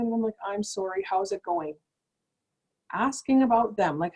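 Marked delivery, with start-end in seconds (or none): 0.5-1.7 sympathetic. Retold or imitated. Sympathy to lady with news.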